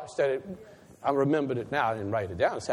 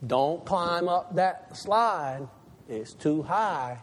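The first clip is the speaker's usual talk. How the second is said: parent warning; much slower than usual. Acted. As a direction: gently caution a small child. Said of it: "they start out as little things".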